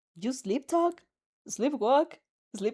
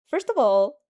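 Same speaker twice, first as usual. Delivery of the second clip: louder, like a general opening a battle plan; fiery declaration; 4 semitones higher, 7 dB louder than usual. Acted. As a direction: announce it with fire in the voice. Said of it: "like a military general about to".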